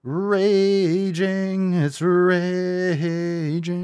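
high, loud, drawn-out hype; hyped. Real, not acted. Streamer hyping his livestream, stretched hype shout. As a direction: stretch "raging" like a hype man. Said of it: "We're fucking raging".

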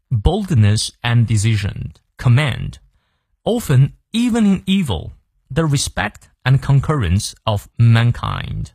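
slow, measured English recitation; deliberate teacher's read-aloud with clear pauses; model reading. Shown as a demonstration. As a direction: read it out slowly for learners, phrase by phrase. Reads the quote aloud.

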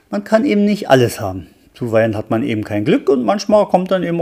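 steady, even read-aloud voice telling a detective tale; story narration. A narrator's reading. Reading a detective novel aloud to listeners, calm story narration. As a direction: read the chapter like an audiobook.

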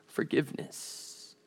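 barely voiced, dying away; breathy whispered plea. Preacher voicing her silent prayer, whispered. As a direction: let the word fade to a whisper.

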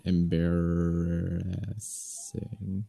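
slow, stretched word while thinking; drawn-out. Real, not acted. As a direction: draw the word out slowly, sound by sound. Speller drawing out the word.

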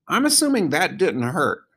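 high-pitched animal character voice; small, high creature voice; Bongo. A narrator's reading. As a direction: pitch it well up for a talking animal.

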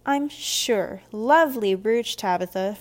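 loud, slow, false compliment; lifted, syrupy sarcasm; insincere. A narrator's reading. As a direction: gush without meaning a word. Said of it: "clearly not meaning it at all".

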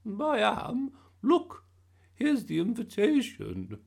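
high, loud, drawn-out announcement; excited gran, slow and shrieky high. A narrator's reading. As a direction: announce thrilling news at the top of your voice. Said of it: "never seen her so excited".

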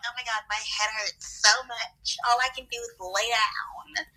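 slow, draggy imitation of suffering; mock pain complaint. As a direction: drag it out like a drained friend. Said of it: "Literally you every time you're in pain".

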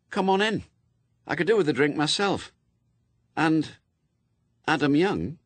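high-pitched woman's character voice; Anathema, brisk and inviting. Acted.

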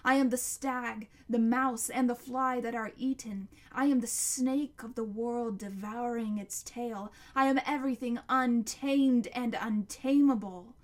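loud, surging monster litany; roaring monster. A narrator's reading. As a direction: hurl out each claim at full volume. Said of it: "still roaring".

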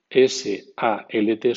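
"salt" con o abierta, solt; English "salt". Shown as a demonstration. (di "salt" como solt)

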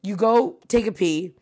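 ordinary delivery

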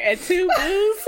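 squeaky laughing slow quote; laughing high squeak. Retold or imitated. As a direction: stretch it high through laughter. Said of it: "I'm over here, like".

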